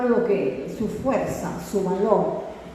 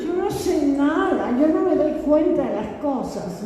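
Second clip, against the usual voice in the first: mock helpless innocence; 3 semitones higher than usual. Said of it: "acude al machismo, a decir".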